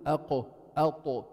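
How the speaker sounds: أقو أطو with thick, full-mouthed qaf and ta; heavy letters. Shown as a demonstration. Teacher contrasts the heavy letters with the thin dal. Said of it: "مثل لما تقول".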